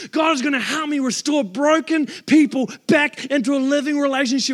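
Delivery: building fervent preaching declarations; declaring promises. Acted. Pastor declaring God's promises to the congregation, fervent. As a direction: proclaim each promise with rising conviction.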